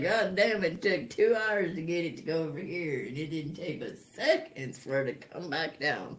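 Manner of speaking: laughing disbelief. Retold or imitated. Retold own amazed exclamation.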